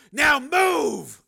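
high, loud commanding shout; shouted order. Acted. Steele ordering the pimp to move, shouted. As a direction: drive him off with the command.

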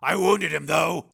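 high, loud call; shouted report. A narrator's reading. Steele updating Ice on the running board, shout. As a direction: shout over a roaring engine.

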